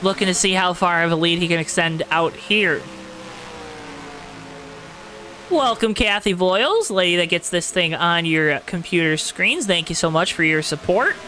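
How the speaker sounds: steady, rolling race-caster delivery; announcer voice. Real, not acted. Race streamer calling laps for viewers, announcer voice. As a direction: keep the broadcast energy going over the restart. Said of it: "my announcer voice like this".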